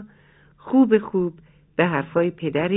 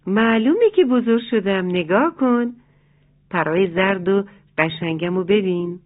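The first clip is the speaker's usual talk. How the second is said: proud chick. Acted. Chick proudly shows her wings.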